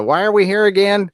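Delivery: high, exasperated whine; frustrated Monarch. Retold or imitated. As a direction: whine it like a fed-up villain.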